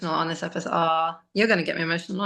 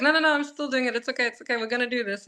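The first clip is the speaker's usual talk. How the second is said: hurried reassurance; 5 semitones higher, much faster than usual. Retold or imitated. Retold reassurance to professor.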